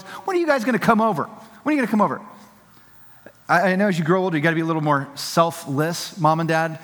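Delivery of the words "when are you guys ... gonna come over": higher, pleading parent voice; mock-whiny plea, pitched up; needy parent asking. Parent nagging grown kids to visit, higher whiny plea. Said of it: "the question or the text is always".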